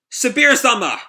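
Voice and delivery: high, loud cry of alarm; alarmed shout. Acted. Henchman seeing a rock hit the boss, alarmed shout.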